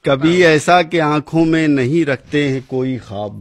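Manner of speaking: measured, declaiming verse recital; poem recitation. Acted. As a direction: recite like a poet at a gathering.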